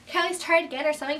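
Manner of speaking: very fast pleading; rushed plea. Retold or imitated. Teen begging the examiner for another try, rushed. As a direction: blurt it out in one breath.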